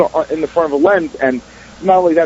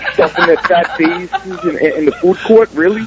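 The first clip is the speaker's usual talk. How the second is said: laughing. Retold or imitated. Mocking guard, laughing.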